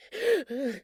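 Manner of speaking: sharp, high gasp of surprise; a high, startled gasp at the compliment; surprised gasp. Acted. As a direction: catch your breath, taken aback. Reacting to being called gorgeous.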